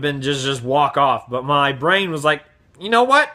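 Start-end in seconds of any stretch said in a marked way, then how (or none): 2.8-3.3 higher-pitched mock dare; daring inner voice. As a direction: voice a brain egging you on. Brain's dare given a voice.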